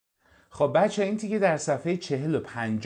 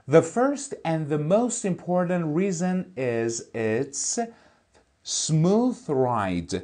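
slow, careful reading of an English text; slow textbook reading; 3 semitones higher, 4 dB louder, much slower than usual. Shown as a demonstration. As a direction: read each word out clearly for the class. Teacher reads English text aloud. (خواندن آهسته و شمردهٔ متن انگلیسی)

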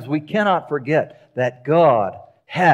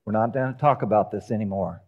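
low, soft and firm; God ending the plea, low and soft; final quiet word; 7 semitones lower, 7 dB quieter than usual. Retold or imitated. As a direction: close the matter gently but firmly. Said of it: "God says".

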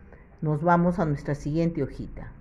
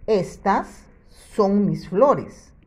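slow model sentence; 3 semitones higher, 3 dB louder, slower than usual. Shown as a demonstration. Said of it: "teacher models the sentence".

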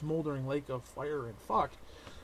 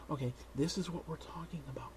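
whispered emphasis; 7 dB quieter than usual. Acted.

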